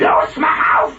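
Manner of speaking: harsh unvoiced shout; urgent whispered shout at the baby; hissed command. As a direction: force it out in a whispered yell. Fridge voice tempts baby.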